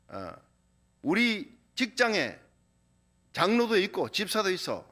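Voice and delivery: a touch of an offended senior pressing a drink; retold annoyed elder. Manager scolds the student refusing his drink, mildly irritated. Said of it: "막 화가 난 거예요".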